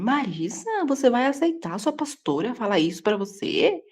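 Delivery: acted-out scandalized question; disapproving friend. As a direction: imitate a pious friend questioning you in disbelief. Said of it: "ela é muito religiosa".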